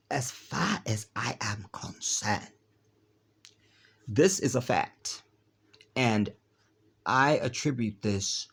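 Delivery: another try at a put-on African accent, leaning on far; rehearsed fake African accent, stressing far. Shown as a demonstration. Vlogger retrying the line in a fake African accent. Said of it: "fake African accent".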